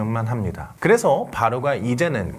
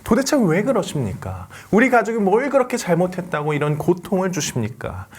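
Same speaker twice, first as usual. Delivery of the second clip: crying out to God; 4 semitones higher than usual. Retold or imitated. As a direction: plead with God in anguished anger. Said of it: "악을 쓰며 화를 냈을 것 같아요".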